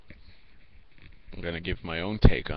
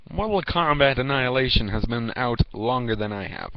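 exasperated rant; 4 semitones higher than usual. Pretend. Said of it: "and be like".

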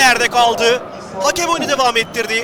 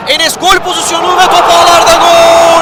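high, loud goal roar; screaming football commentator; 4 semitones higher, 4 dB louder than usual. Real, not acted. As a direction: belt out the goal and the score. (ikinci golde bağıran spiker)

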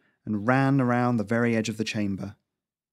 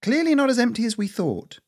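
higher dry sarcastic retort; 13 semitones higher, 4 dB louder than usual. Acted. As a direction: sneer the retort dryly. Lisa replied.

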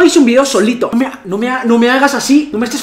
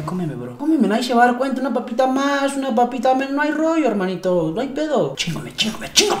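tempting chips voice; 6 dB quieter than usual. Retold or imitated. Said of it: "observándome, como de".

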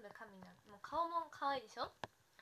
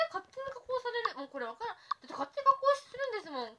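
indignant protest; 9 semitones higher, 8 dB louder than usual. Real, not acted. Protesting auto-filter to viewers.

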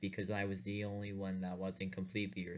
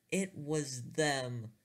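higher, slow hammed-up terror; mock panic; 5 semitones higher, slower than usual. Narrator repeating the discovery, higher hammed-up panic. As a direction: cry it out as the panic peaks.

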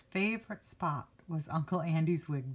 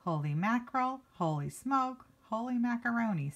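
put-on listing kid's sayings; 5 semitones higher than usual. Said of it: "That kid says funny things".

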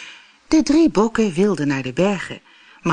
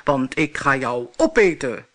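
monster roar; 3 semitones lower, 3 dB louder than usual. Acted. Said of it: "brulde het monster".

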